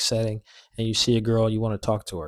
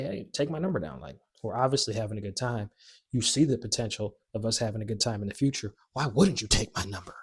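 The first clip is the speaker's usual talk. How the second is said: easygoing, confident; casual and sure of yourself; not threatening. Shown as a demonstration. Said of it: "You just say".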